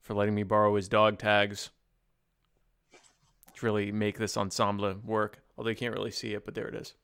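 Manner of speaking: low, rasping Colonel Kurtz voice; low Brando voice. Acted. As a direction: speak low and gravelly like Brando. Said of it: "I was considering doing that voice".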